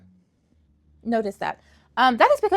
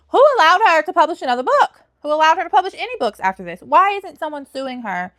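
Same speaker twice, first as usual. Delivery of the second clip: higher and louder, indignant disbelief; outraged; 5 semitones higher, 6 dB louder than usual. Real, not acted. Reviewer outraged at a plagiarizing author, loud disbelief.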